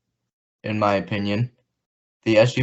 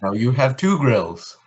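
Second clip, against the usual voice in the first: bad German accent; mock German accent, heavy and stiff. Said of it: "That's a bad German accent".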